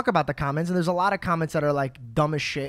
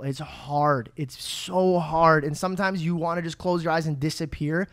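sincere. Real, not acted. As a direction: talk gently to someone who is struggling. Sincere message to struggling viewers.

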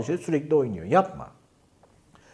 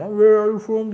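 louder insistent question; 7 semitones higher, 7 dB louder, slower than usual. Shown as a demonstration. Teacher showing learners the question always works, said louder. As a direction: ask it louder and higher, pressing the point. Third, more insistent repeat.

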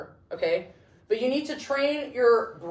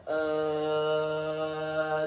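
monotone buzz; 6 semitones lower, 4 dB quieter than usual. Retold or imitated. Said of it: "this constant".

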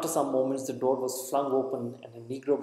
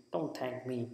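softer, curt brush-off; cold voice; 7 dB quieter than usual. Acted. Hostel clerk rejecting thanks, cold and curt. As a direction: refuse the thanks coldly. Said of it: "said the cold voice".

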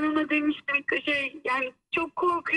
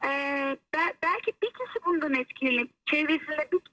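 over the phone. Real, not acted. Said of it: "hoparlöre aldım seni".

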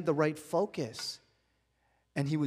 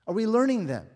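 repeated louder, higher; 6 semitones higher, 7 dB louder, faster than usual. Real, not acted. Preacher repeating his question to the congregation, louder. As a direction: push the repeat up and out.

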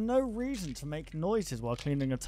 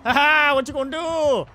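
shocked laughter; 9 semitones higher, 8 dB louder than usual. Real, not acted. Taunting the killer, laughing.

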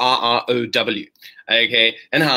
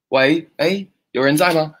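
raised, checking if anyone is there; calling out; 4 semitones higher, 3 dB louder than usual. Acted. Teacher acting out calling to someone silent, calling out. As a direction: call out to get a response.

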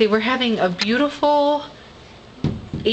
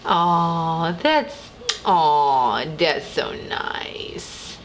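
tender whisper; 5 semitones lower, much slower than usual. Real, not acted. Tender moment, child and dog.

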